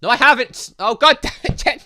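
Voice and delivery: loud, high protest with a laugh; loud panicked denial. Real, not acted. Gamer caught out by character, loud flustered yell.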